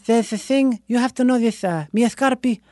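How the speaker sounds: put-on light Italian professor accent. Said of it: "he really talked like this".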